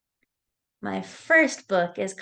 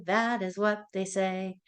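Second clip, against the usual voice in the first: sing-song nursery rhyme voice; reading to a toddler; 2 semitones higher than usual. Acted. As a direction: chant it brightly for little kids. Sing-song animal rhyme for kids.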